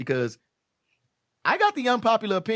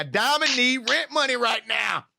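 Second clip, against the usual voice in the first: slow drawn-out announcer call; 6 semitones higher, slower than usual. Pretend. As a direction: stretch it out like a club announcer. Repeated louder strip club call.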